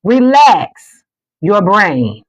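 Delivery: slow soothing repeat; slow relax cue. Shown as a demonstration. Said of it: "One more time".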